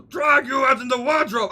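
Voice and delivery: high, strained Russian brute shout; Heavy Weapons Guy. Acted. Sailor hauls man from wardrobe, shouted Russian heavy. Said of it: "give him heavy weapons guy voice".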